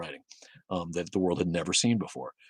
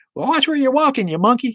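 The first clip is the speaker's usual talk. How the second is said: put-on very high, very loud, shrill squeaky southern accent; 10 dB louder than usual. Speaker imitating a friend's reaction to someone stubbing a toe, squeaky southern voice. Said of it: "like his squeaky voice".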